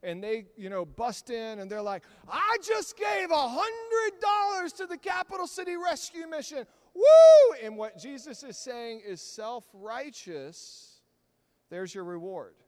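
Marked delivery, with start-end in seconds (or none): 2.3-7.5 loud, high mock bragging shout; showy braggart. Preacher mocking a showy giver, loud high shout. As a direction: ham up a show-off donor yelling.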